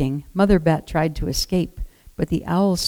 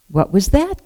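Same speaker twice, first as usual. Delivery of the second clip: put-on a startled baby bird, a bit higher; startled cry; 4 semitones higher, 4 dB louder than usual. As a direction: ask it like a chick that just got a fright. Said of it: "cried Flap".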